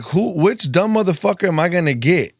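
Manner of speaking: high, cheeky voice of the spider. Pretend. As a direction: voice the spider as if it is picking its victim. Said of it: "she's like".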